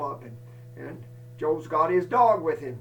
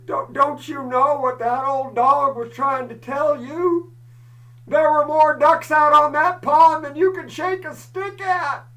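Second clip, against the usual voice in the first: rising punchline; 6 semitones higher, 7 dB louder than usual. Retold or imitated. Punchline built up loudly.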